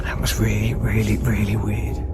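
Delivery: dropping low and into a whisper; hushed and shaken, trailing off. Real, not acted. Alone in a dark building.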